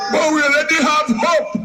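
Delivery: fast excited shout; rally shout. Real, not acted. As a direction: rouse the crowd with it. Campaign rally cheer line.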